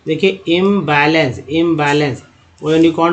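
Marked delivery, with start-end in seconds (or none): 0.5-1.4 slow demo. Shown as a demonstration. शब्द धीरे पढ़ाकर दोहराना.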